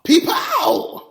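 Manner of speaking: high shouted catchphrase; playful shout. Pretend. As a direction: yell it out high like a sound effect. Catchphrase cry opening the ad.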